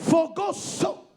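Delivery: "For God so" very slow, "so" leaned on; stress on so. Shown as a demonstration. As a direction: drag out "so" slowly to emphasize it. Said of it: "You need to emphasize the so".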